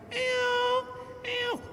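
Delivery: very high mock cat mewing; squeaky imitated meow. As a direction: mew like a scrawny stray cat. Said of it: "ini kucing asli".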